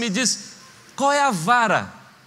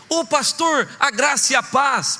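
cheery greeting; 4 semitones higher, slower than usual. Acted. Cheerful brother greeting pastor.

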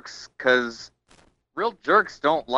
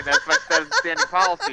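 laughing; 4 semitones higher, much faster than usual. Real, not acted. Guest laughing through answer.

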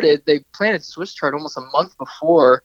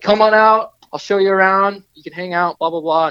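higher, eager retold welcome; imitating an excited invitation; 4 semitones higher than usual. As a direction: play his stoked reply, lightly acted. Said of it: "He's so excited".

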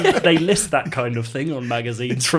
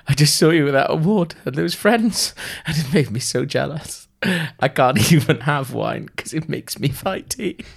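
high, hammed-up miserable confession; wretched whining; 6 semitones higher, 5 dB louder than usual. Gav confessing jealousy to Arthur, wretched. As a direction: plead pitifully as your voice climbs.

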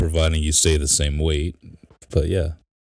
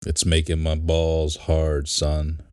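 Boston accent. Shown as a demonstration. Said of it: "Say it again".

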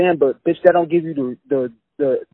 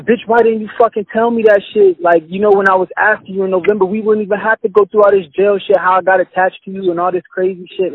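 louder, heated retold rant; angry yelling; 4 semitones higher, 4 dB louder than usual. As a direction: chew her out, voice raised. Retold angry confrontation with girlfriend.

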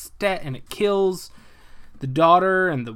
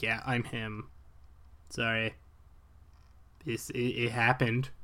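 much softer, deflated confession; resigned admission; 4 semitones lower, 10 dB quieter than usual. Retold or imitated. Magneto giving in to the police, soft resigned admission. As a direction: let the fight drain out of him. Magneto gives up, family threatened.

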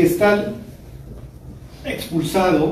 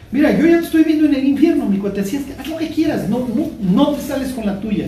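God's warning; 6 semitones higher than usual. Retold or imitated. God voiced warning the sinner.

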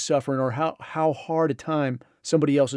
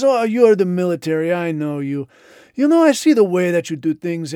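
a louder, scolding general; louder lecturing general; 3 semitones higher, 6 dB louder than usual. Retold or imitated. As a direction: talk down to him, loudly.

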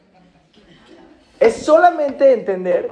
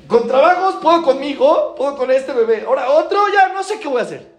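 overwhelmed mother; 7 semitones higher, 3 dB louder than usual. Retold or imitated. Voicing an overwhelmed young mother.

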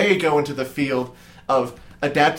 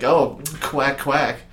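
sexy duck noise; much slower than usual. Pretend. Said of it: "Is that your sexy duck noise?".

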